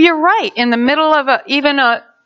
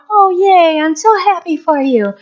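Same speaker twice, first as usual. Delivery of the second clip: tag; 4 semitones higher than usual. Acted. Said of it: "Sometimes encouraging isn't a".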